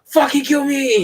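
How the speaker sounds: teen mock-begging mom to end it, a hammed-up slow wail; mock whiny wail. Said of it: "and I'd be like".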